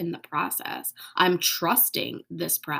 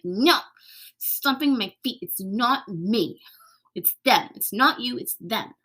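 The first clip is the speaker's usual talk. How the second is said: mock childish tantrum, a touch louder; inner child tantrum; 3 semitones higher, 3 dB louder than usual. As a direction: play a sulky stomping kid, lightly. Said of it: "my inner child's throwing a temper tantrum".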